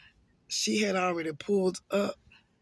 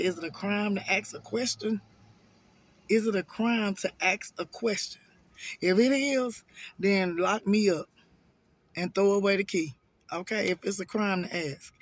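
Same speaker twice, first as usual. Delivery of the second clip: heated retort. Retold or imitated. Heated retort in retold argument.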